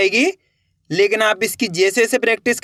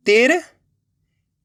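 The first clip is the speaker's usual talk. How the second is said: slow drawn-out word; 3 semitones higher, much slower than usual. Shown as a demonstration. Teacher to pupils revealing the finished word, very slow. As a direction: stretch तिरपाल out very slowly with a rising end. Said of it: "तो मिलके बन जाएगा अपने".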